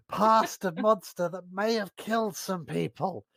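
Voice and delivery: exaggeratedly careful explanation. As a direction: spell it out deliberately. In character, warning about the monster.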